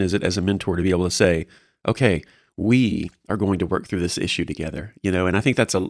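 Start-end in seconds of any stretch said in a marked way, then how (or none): 1.9-4.9 slightly lowered, steady reassurance with "we" held; calming reassurance. Shown as a demonstration. Mentor promising a mentee support, calm and steady. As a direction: settle them, lingering on "we". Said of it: "really kinda calming and very kinda centering".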